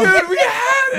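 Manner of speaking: laughing. Real, not acted.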